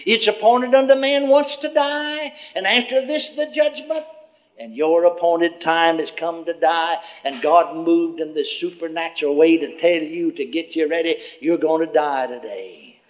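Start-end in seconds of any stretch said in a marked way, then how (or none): 0.0-7.0 devil quoting scripture. Retold or imitated. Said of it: "devil said he'd quote a little scripture".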